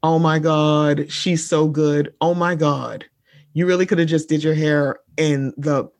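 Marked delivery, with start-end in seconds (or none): 0.0-3.0 mock gushing. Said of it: "everybody was like".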